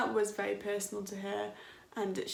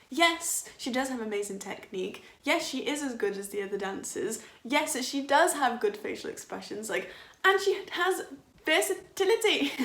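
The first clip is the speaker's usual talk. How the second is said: insistent defense; 2 semitones higher than usual. Retold or imitated. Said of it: "When I'm like".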